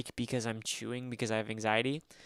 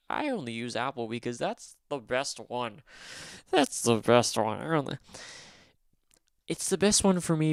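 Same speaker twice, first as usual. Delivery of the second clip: closed-minded Apple guy; 4 dB louder than usual. Retold or imitated. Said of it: "one of those, like, closed-minded".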